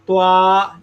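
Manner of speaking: त्वा said with rounded lips, a w-glide after t; wrong rounded ta. Shown as a demonstration. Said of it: "बहुत बड़ी गलती है".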